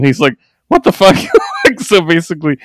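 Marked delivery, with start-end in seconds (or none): 0.7-1.2 shocked outburst. Retold or imitated. Fabian reacting.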